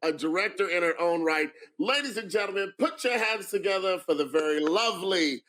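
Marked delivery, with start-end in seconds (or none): 1.8-5.4 emcee introduction. Acted. Introduces a judge to applause.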